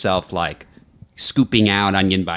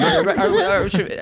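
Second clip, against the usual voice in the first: laughing stammer. Real, not acted. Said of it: "Maritza, you can talk to".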